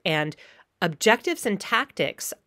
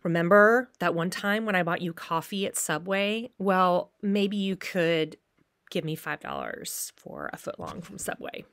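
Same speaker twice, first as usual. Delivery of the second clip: mock guilt trip. Shown as a demonstration. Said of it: "I could make you feel guilty".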